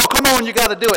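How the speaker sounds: imitated cajoling; coaxing. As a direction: egg someone on, imitating eager kids. Retold youth coaxing him.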